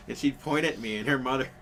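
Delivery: normal talking voice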